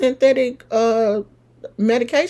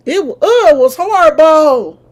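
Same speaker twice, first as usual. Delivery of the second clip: horrified exclamation; 6 semitones higher, 9 dB louder than usual. Real, not acted. Recalling the ugly scar.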